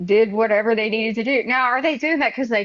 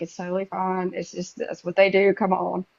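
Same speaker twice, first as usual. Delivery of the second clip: softer, lightly voiced reassurance; reassuring mom; 3 semitones lower, 4 dB quieter than usual. Mom to her scared daughter in Mexico, low-key reassuring. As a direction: imitate mom playing it down, quietly.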